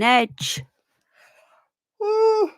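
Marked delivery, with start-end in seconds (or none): 2.0-2.5 high yawning "ooh". Real, not acted. Streamer caught in a yawning fit mid-show, yawning. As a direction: let out a real high-pitched yawn. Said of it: "a yawning fit".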